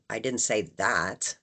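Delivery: I didn't say that, weighting that; stress on that. Shown as a demonstration. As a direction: land on that at the end. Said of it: "implying that I said something".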